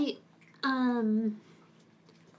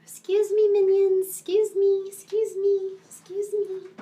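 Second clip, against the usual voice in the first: higher, louder call to the pets; 5 semitones higher, 4 dB louder than usual. Real, not acted. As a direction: summon the minions playfully. Calling the pets over.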